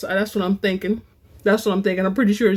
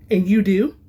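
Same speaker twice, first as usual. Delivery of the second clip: demanding; 4 dB louder than usual. A narrator's reading. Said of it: "the companion demanded".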